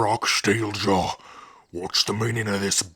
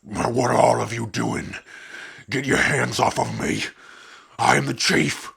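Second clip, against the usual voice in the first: indignant protest; 3 semitones higher than usual. Acted. Chief seized by his own people, indignant protest. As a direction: pull rank as hands grab you.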